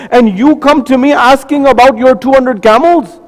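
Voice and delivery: mock outraged ruler; indignant. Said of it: "He says".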